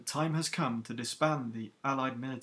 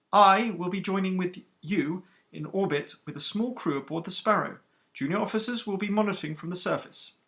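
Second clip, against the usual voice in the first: stern captain, higher and louder than the narration; iron-voiced captain; 6 semitones higher, 5 dB louder than usual. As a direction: rebuke the recruits who kept chattering. Captain answers the graduate.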